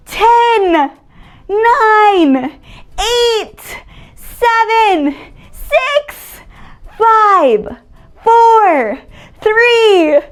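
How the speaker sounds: loud excited countdown; new year countdown crowd. Acted. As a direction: call out each number to the crowd.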